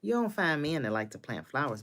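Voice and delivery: a sharp high "What?" of disbelief; surprised. Retold or imitated. Learning her husband likes planting flowers, surprised. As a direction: gasp it, then marvel at him. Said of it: "And I was like".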